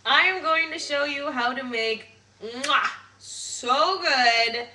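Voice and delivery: a hint of a hammy Italian accent; lightly put-on Italian chef accent; mock Italian. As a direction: play an Italian chef with a chef's kiss, lightly. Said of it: "why I'm being Italian".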